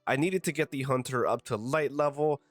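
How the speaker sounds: congested, stuffy-nosed voice; blocked nose. Real, not acted. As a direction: talk through a blocked nose. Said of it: "as you can tell by my voice, I'm very congested".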